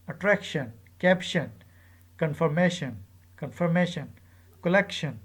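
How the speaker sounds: syllable before "tion" stressed, atTENtion, colLECtion, confirMAtion; measured word list, "tion" left unstressed after a stressed syllable as in atTRACtion. Shown as a demonstration. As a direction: drill each word with a falling ending, ACtion, inTENtion, estiMAtion. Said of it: "accented on the syllable before it".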